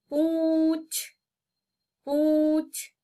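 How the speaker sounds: पूंछ, lifted and nasal; high nasal poonchh. Shown as a demonstration. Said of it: "उच्चारण कैसे होता है देखेंगे". (ऊँचे स्वर में नासिक पूंछ)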